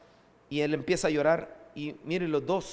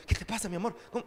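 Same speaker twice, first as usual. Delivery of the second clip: tender father; 4 semitones higher, much faster than usual. Retold or imitated. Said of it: "cuando uno de papá ve a un hijo llorar".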